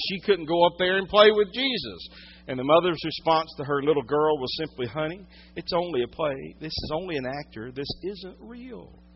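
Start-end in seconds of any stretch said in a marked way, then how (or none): 4.9-9.0 a touch of soft motherly reassurance; gentle mother. Retold or imitated. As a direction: softly reassure a child, slowing at the end. Mother soothing her small daughter.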